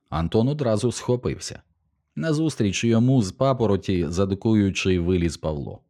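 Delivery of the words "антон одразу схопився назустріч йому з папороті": ordinary delivery, nothing marked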